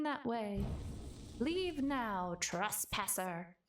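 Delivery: imperious, slow-building threat to an intruder; lightly voiced ancient guardian, commanding; haughty guardian spirit. Voicing the tavern guardian cat.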